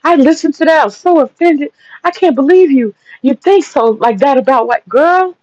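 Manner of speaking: a hint of an offended friend; offended friend quote. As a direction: mimic her hurt disbelief, a touch hammed-up. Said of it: "she was like".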